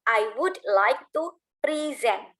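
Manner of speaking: slow demo with "present" said as pri-ZENT, stress on the second syllable; "present" stressed at the end, pri-ZENT, said slowly; correct verb pronunciation. Shown as a demonstration. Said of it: "jadi bilangnya".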